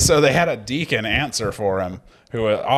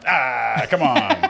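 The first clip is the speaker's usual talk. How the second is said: whiny dead pope complaint; corpse protest; much slower than usual. Pretend.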